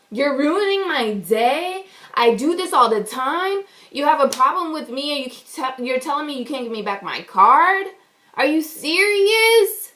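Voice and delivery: upset, understated retold yell; indignant questioning, rising in disbelief at the end. Upset customer refused her card, mild retold yelling. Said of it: "I'm yelling at this boy".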